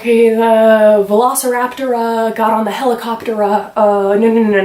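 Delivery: hammed-up lecturer spouting nonsense terms; mock lecture gibberish. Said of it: "I'm like".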